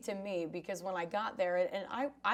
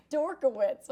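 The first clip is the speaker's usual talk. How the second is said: name pushed out through laughter; laughing; 5 semitones higher, 6 dB louder than usual. Real, not acted. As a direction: fight the giggle on the name. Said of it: "hard for me to say that with a straight face".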